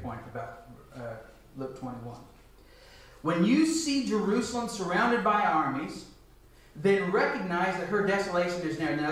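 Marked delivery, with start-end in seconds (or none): 3.2-9.0 louder emphatic reread. Shown as a demonstration. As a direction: read it again louder, with weight on "you". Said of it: "We're gonna spend just a little bit of time on this".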